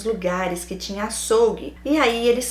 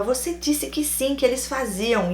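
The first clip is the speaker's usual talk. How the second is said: higher-pitched mock insistence; insistent; 5 semitones higher than usual. Boyfriend insisting she had said yes, mock insistent. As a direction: imitate someone nagging and refusing to drop it. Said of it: "E ele insistia".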